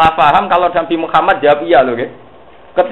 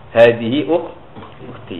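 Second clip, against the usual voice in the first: slowly drawn-out Arabic reply; slow Arabic quote; 3 semitones lower, much slower than usual. Retold or imitated. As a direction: spell out the Arabic quote slowly, like Ibrahim to the guard. Ibrahim answers the king's guard. (ucapan Arab pelan dan panjang)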